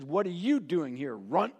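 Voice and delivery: brother's scorn. Acted. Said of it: "and says".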